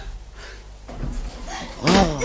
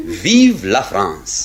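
smug delight; much slower than usual. Acted. Iașa boasts about Paris.

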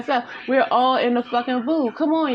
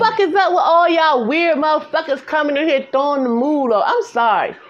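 higher, louder opening in a skit character's voice; put-on skit voice; 4 semitones higher, 4 dB louder than usual. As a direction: put on an exaggerated skit voice, easing off after the outburst. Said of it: "let me talk in my regular voice".

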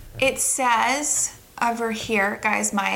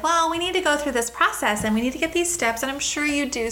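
higher put-on procedural patter; sweetly condescending, pitched up; patronizing clerk; 5 semitones higher than usual. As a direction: imitate a front-desk clerk humouring a guest. Voices a clerk insisting on procedure.

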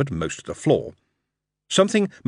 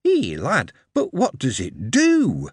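trying to understand; 4 semitones higher, slower than usual. Acted. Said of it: "in the voice of someone really trying to understand".

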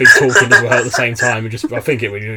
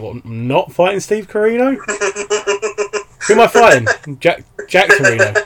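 higher-pitched, thrown-off promo questions; mock confusion; 8 semitones higher, 3 dB louder than usual. Wrestler hearing of a changed opponent mid-promo, mock confusion.

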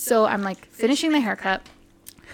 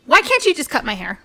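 louder, insistent mock complaint; impatient client; 4 dB louder, faster than usual. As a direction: imitate a client losing patience. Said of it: "He was getting impatient with you".

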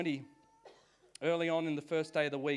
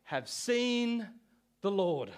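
joyful announcement; 5 semitones higher, much slower than usual. Retold or imitated. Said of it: "she says to the disciples".

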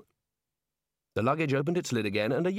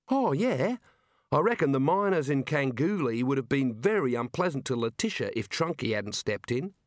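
Neilette's voice. Acted. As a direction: voice the girl asking for a hand.

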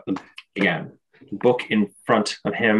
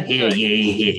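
town crier. Acted. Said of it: "The Arch Lector".

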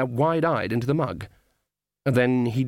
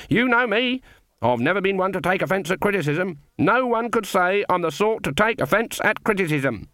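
put-on high, indignant old witch; indignant Granny; 7 semitones higher than usual. A narrator's reading. Granny denying she takes offence at criticism, indignant. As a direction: protest touchily on a raised pitch.

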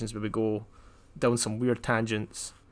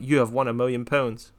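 deadpan monotone. Shown as a demonstration. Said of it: "I stay at this monotone".

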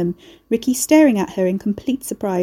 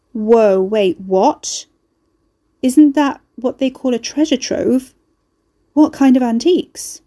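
pitched up, louder, jolted by the news; astonished; 4 semitones higher, 5 dB louder, slower than usual. A narrator's reading. Carrie hearing of a treasure trove, astonished. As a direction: stop short, then pounce on the word treasure.

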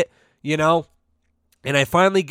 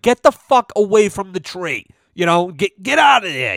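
playful shout to shoo someone off; mock yell; 5 semitones higher than usual. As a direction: chase her off the presents, hammed-up. Shooing girlfriend from the presents.

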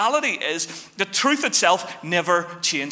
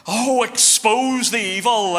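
mock zealot; 2 semitones higher, slower than usual. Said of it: "some people love this sort of language".

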